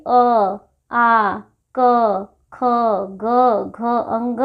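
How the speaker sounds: "अ, आ, क, ख, ग, घ, अंग" spoken one by one from the throat; pengucapan dari tenggorokan. Shown as a demonstration. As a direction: demonstrate throat letters "अ, आ, क, ख, ग, घ, अंग", slowly and separately. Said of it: "कंठ से उच्चारण होने वाले जो वर्ण हैं".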